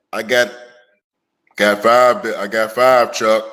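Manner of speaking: deep, slow Shaq voice; Shaq impression. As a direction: boom out the bragging like Shaq. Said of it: "Every time Shaq get on that".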